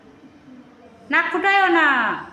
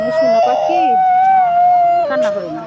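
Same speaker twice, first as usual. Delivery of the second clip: much higher, louder sing-song coaxing; high coaxing call; 6 dB louder than usual. Real, not acted. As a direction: call sweetly over the crying. Mother calms crying child.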